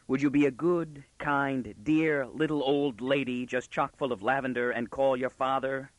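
exaggeratedly polite, each adjective set apart; mock courtesy. Man asking the offended girl for her father, mockingly. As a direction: lay on the sweet politeness teasingly.

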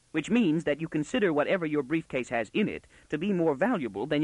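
put-on a smug girl detective laying out her deductions; self-assured young girl. Girl reasoning out the intruder's briefcase trick, smugly.

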